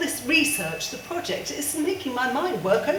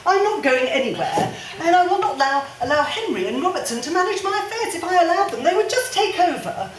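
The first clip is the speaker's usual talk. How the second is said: defiant; 2 semitones higher, 4 dB louder than usual. Acted. Defiant refusal to be managed.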